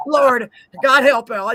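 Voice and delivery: slow "God help y'all" in a drawl; southern drawl. Pretend. Slow southern blessing to the listeners. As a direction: drag it out like a country preacher. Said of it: "trying to get back to my normal self".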